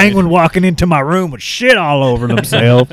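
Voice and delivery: high-pitched comic outrage; hammed-up aggrieved ranter; ranting gun nut. Co-host playing a man complaining of demon intruders, outraged. Acting a paranoid armed neighbor ranting.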